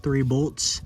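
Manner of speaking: talking while lying under a car; strained, echoing voice from under the car. Real, not acted. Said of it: "so I'm under the car".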